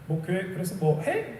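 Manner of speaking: slow, mildly dismissive imitation; mock needling question. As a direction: imitate someone lightly picking a fight, drawn out. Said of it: "이렇게 물어보는 것 같아서 기분이 나빴어요". (시비 거는 듯한 말투를 살짝 흉내)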